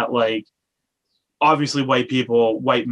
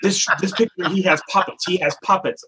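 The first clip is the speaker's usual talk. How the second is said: mock insistent lady; 5 semitones higher than usual. Puppet lady pointing at phone.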